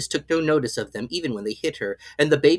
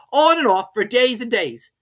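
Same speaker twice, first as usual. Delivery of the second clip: high, slow, haughty footman; lofty servant talking down; footman's voice; 12 semitones higher, 8 dB louder than usual. A narrator's reading. Footman figure voice.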